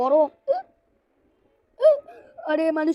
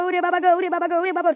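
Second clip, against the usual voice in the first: higher, louder cartoon panic wail; panicked wail; 4 semitones higher, 4 dB louder than usual. Character panicking at something that won't stop, frightened wail. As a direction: wail for your father in fright.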